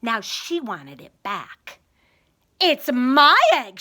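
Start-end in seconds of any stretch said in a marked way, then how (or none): 2.6-3.8 louder, indignant sputter. Acted. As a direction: spit it out in outrage. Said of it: "she sputtered".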